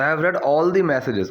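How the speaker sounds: very slow, each word spaced out; slow teacher demo. Shown as a demonstration. Teacher to Hindi learners, slow clear model sentence. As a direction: spell the sentence out slowly for learners. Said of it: "इसकी pronunciation change हो जाती है".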